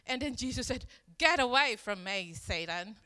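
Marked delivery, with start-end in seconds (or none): 1.2-3.0 retold rebuke, starting loud and dropping. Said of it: "Jesus rebuked him".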